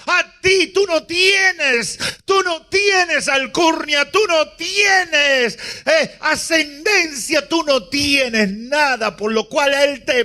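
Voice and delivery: lightly voiced friends scolding the beggar; scornful scolding. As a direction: talk down to him, slow and scornful. Friends scolding the blind man.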